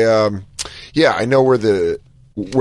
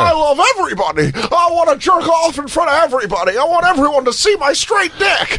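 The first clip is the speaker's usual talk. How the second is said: much higher shouted Jimmy Stewart that comes out like Don Knotts; overjoyed shouting old-movie hero, pitched way up; Jimmy Stewart impression. Host hamming up It's a Wonderful Life for the caller, shouting Jimmy Stewart. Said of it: "my Jimmy Stewart sounds like, um, wh-, who's the deputy? ... Don Knotts".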